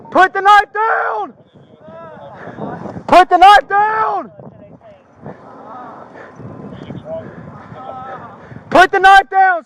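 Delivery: shouting command. Real, not acted. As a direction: order him to drop it. Officer commanding armed man.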